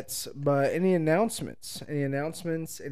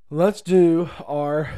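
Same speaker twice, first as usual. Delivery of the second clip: drawn out; 3 semitones higher, 8 dB louder, much slower than usual. Acted. Drawn-out build-up to announcement.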